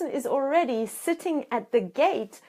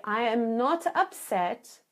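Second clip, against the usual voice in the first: calm reassurance. Shown as a demonstration. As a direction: soothe them, take your time. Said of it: "So you say".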